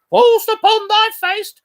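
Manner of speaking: put-on playful warning to the child; merry husband teasing. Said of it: "quoth my husband".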